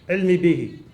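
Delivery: internal, gulped-down delivery; words taken inward; swallowed, inward. Shown as a demonstration. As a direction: swallow the sounds back into yourself. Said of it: "you swallow it".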